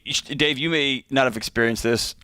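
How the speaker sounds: mild deadpan sarcasm; sarcastic. Real, not acted. Co-host teasing Dave about his experience, mildly sarcastic. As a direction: feign innocence with a light tease. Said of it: "that's me being sarcastic".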